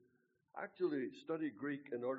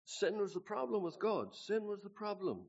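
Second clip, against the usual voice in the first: higher and louder, pressing the word sin; raised preaching voice; preacher's emphasis; 8 semitones higher, 5 dB louder than usual. Retold or imitated. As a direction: preach it like the man in the hall. Retelling the preacher's message.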